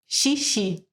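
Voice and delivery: "xixi" said slowly and clearly, showing the sh sound; teacher sounding out "xixi"; demo word xixi. Shown as a demonstration. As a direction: draw out the sh in "xixi" for a pupil. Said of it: "E she".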